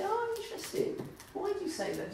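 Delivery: gentle curiosity. Retold or imitated. Acts gentle alternative to scolding.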